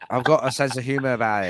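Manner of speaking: fast, put-on American accent. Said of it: "turn on that fucking American shit".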